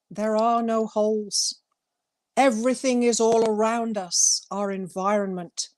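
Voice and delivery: measured reading of her own poem; unhurried poetry reading aloud. Acted. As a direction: read it as a gentle spoken-word poem. Reads poem from her book.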